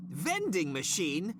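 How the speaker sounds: "Vending machine?" drawn out slow, dripping scorn; slow mocking repeat. Boss repeats the assistant's offer slowly with contempt. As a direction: stretch out "Vending machine?" as if it's absurd.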